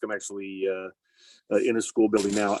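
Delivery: muffled through a mask; speaking behind a face mask. Real, not acted. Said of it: "hear me through my mask".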